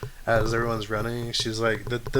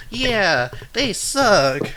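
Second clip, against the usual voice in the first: Elbow agreeing; 9 semitones higher, 5 dB louder, much slower than usual. Acted. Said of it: "Elbow goes".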